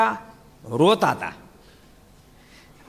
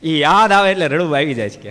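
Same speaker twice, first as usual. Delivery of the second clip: louder, chuckling through the words; laughing through the line; 5 dB louder than usual. Real, not acted. Speaker laughs at the devotee's tearful confession. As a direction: laugh while telling the punchline.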